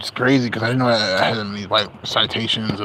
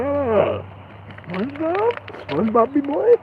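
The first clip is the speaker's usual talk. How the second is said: cartoon pirate voice. Vlogger imitating a SpongeBob character, high hammed cartoon voice. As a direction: ham up a cartoon sea captain.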